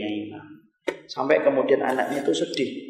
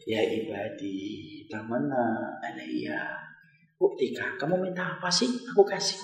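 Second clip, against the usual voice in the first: solemn divine voice; 7 dB quieter than usual. Acted. God speaks to the martyr.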